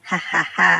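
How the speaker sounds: low scheming ha-ha-ha; sly laugh. Acted. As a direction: chuckle deeply over a sneaky plan. Scheming to steal the sleeper's milk.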